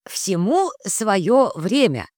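slow, regretful words. Acted. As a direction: say it slowly, with regret. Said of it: "с сожалением ответил источник". (с сожалением)

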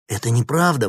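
loud, high denial; exclaiming. A narrator's reading. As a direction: cry out that it's untrue. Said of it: "воскликнул Никита".

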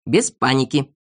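composed reassurance; calm. A narrator's reading. Leader steadies the panicking boy, calm. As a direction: keep it even and steady. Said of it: "спокойно ответил Знайка".

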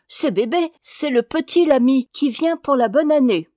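put-on a small boy begging to come in; child crying out. A narrator's reading. Little boy at the door to his father, loud and eager. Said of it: "s'écrie-t-il".

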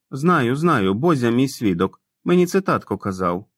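put-on sheepish grown man who talks like a boy; childlike Tom. Narrator voices childlike Tom. (несміливий дитячий голос Тома)

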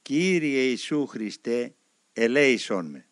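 slow spoken prayer. Retold or imitated. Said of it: "άρχισα να λέω προφορικά".

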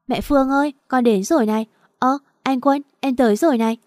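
high, loud sing-song calling out; calling out excitedly. Acted. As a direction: announce yourself from the doorway, gushing. Girl calls out arriving outside.

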